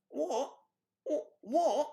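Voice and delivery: high, puzzled What; a baffled double take; mock British What. Mimicking British shoppers gawking at snuggling friends. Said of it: "They're like".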